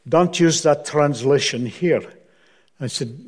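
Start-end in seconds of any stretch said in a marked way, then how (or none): 0.1-2.0 lightly hammed Scottish accent; imitated Scots, badly done; horrible Scottish accent. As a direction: repeat it as a mock Scottish minister. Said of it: "this is my horrible Scottish accent".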